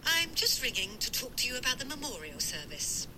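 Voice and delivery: phone voice. Acted. Mum on the phone.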